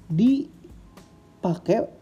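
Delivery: dipakai stretched very slowly; drawn-out. Shown as a demonstration. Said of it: "eh, dipakai".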